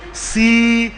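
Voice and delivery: Sumatran Siregar, slow with a full, stressed E; Sumatran accent. Shown as a demonstration. Teacher imitates Sumatrans saying a surname, Sumatran accent on Siregar. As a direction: stretch Siregar syllables the Sumatran way. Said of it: "Kayak orang Sumatera".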